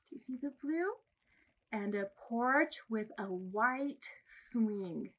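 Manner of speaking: slow, sing-song picture-book reading with big pitch swings; reading to children. Acted. Librarian reads a picture book to babies, slow and sing-song. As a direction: read it slowly and brightly, like to a baby.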